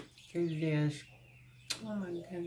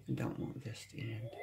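much softer repeat, trailing off; a quiet murmured echo; 3 semitones lower, 10 dB quieter than usual. Real, not acted. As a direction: let it fall away quietly. Reader echoes card message softly.

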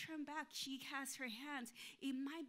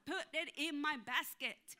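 loud, slow, indignant outburst; 3 semitones higher, 6 dB louder than usual. Acted. Fuming in her mind at the lady, indignant. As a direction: hit each word slowly and loudly in outrage.

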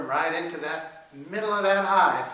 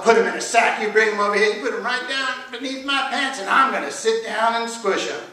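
raised, emphatic orders; higher-pitched storybook Sultan giving orders; commanding Sultan; 5 semitones higher, 6 dB louder than usual. A narrator's reading. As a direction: dictate the plan step by step. Sultan eagerly gives orders.

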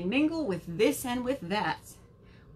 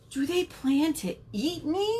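frightened; 6 semitones higher than usual. A narrator's reading. Pea fears being eaten.

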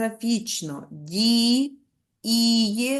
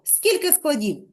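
ordinary delivery

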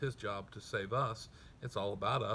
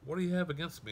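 higher, louder plea to the prophet; pleading cry; 7 semitones higher, 4 dB louder, faster than usual. Retold or imitated. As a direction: let the mother's hurt lift the line. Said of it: "so this is a, a decent, uh, effort".

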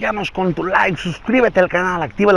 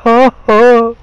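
a famous ranchera singer's voice; 2 semitones lower than usual. Acted. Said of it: "la señor del Vicente Fernández".

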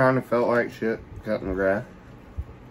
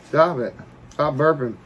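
raised, scolding stop it; loud; 5 semitones higher, 4 dB louder than usual. Real, not acted. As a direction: snap stop it louder and higher. Repeats it louder at burping.

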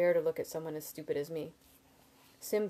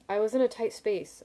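higher, louder, defensive; a little testy; 5 semitones higher, 6 dB louder than usual. A narrator's reading. Borrower defending the loan to his friends, a little testy. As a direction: snap back mildly in self-defence. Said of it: "I said, a little testily".

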